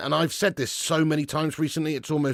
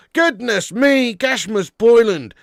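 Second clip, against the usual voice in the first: exasperated; 7 semitones higher, 6 dB louder, slower than usual. Real, not acted. Exasperated at the striker.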